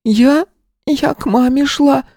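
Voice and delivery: put-on very high, slow tearful child; a small girl close to sobbing; little girl, tearful. A narrator's reading. Lost girl tells the teacher she was going to mom. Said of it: "сказала она и всхлипнула".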